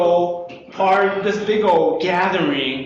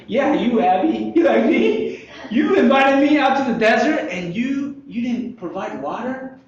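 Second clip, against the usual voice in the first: mock complaint; 5 semitones higher than usual. Voicing grumbling Israelites at Moses.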